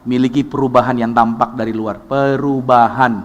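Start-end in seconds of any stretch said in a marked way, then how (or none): 2.0-3.2 drawn-out, slow word for the congregation to repeat; slow leading word. Shown as a demonstration. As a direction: stretch it slowly so they echo it. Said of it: "Sama-sama katakan perubahan". (kata yang diucapkan pelan untuk ditirukan jemaat)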